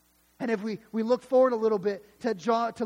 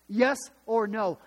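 slow and firm, pressing for an answer; slow insistent repeat; 4 dB louder, slower than usual. Acted. Priests demanding a straight answer from Jesus, slow and insistent. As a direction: demand it a second time, slowly.

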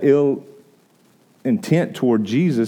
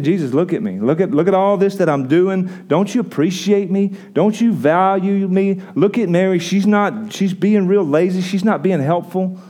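higher, pleading complaint about her sister; whiny self-pity; 6 semitones higher than usual. Acted. Martha to Jesus, complaining higher and whiny. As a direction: whine for attention like a put-upon helper. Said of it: "that's her attitude right now".

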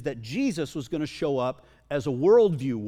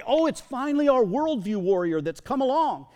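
higher-pitched, hammed-up delight; mock joy; 8 semitones higher, 4 dB louder than usual. Preacher voicing believers greeting their hoped-for warrior, acted high-pitched joy. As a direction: play at overjoyed relief, voice lifted. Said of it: "they received it with joy".

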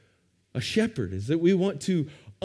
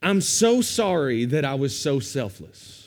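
sarcastic apology. Retold or imitated. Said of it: "you can hear Paul saying".

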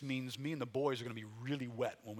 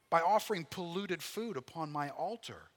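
God making his case, emphatic and measured; dramatic scripture reading; 5 semitones higher, 5 dB louder than usual. Acted. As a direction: declaim the prophet's words with weighty pauses. Reads God's answer.

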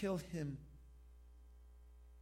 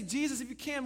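higher-pitched, tentative appeal to Jesus; doubtful request; 5 semitones higher, 4 dB louder, faster than usual. Acted. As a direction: ask as a doubting believer would. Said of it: "It's like we say".

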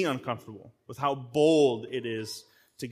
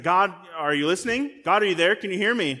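desperate plea; 2 semitones higher, 4 dB louder than usual. Retold or imitated. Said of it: "Can you hear the desperation there?".

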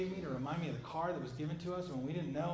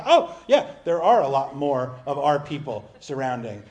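laughing relief; 14 dB louder than usual. Retold or imitated. Servant laughing as he sees angel armies. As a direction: laugh as if the danger just melted away.

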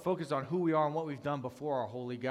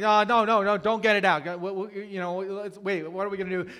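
urgent, louder, higher retold objection; alarmed protest; 7 semitones higher, 10 dB louder than usual. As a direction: cut in to stop them, acting it out. Acted panicked protest in retold scene.

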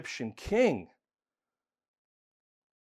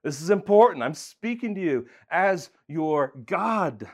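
mock stern God; 3 semitones higher, 5 dB louder than usual. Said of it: "I know he's saying".

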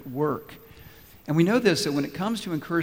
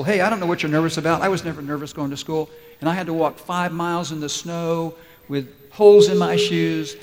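lightly voiced boastful parent, louder; dismissive parent; 7 dB louder than usual. Parent to a child nervous about school, mildly mocked dismissive boasting. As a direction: play a parent brushing off a child's worry, building louder.

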